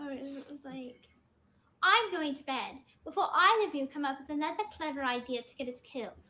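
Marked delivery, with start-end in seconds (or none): 1.8-6.3 put-on light British accent, a touch quicker; Hermione British accent. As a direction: recite it like a prim British schoolgirl, lightly done. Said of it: "I did a really good British accent".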